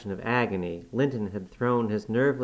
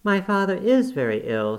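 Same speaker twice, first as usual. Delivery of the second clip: much higher and louder, sharp reproach; indignant outburst; 9 semitones higher, 6 dB louder than usual. A narrator's reading. Catherine rebuking her cousin about her sick father, indignant. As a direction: fling it at him in anger.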